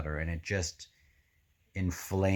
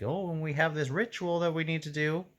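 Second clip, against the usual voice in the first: lightly higher sly put-on voice; scheming Pust voice; 7 semitones higher than usual. Reader imitating Pust scamming the lady, lightly voiced. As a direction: sell the fake ritual with a hint of a con man. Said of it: "He's like".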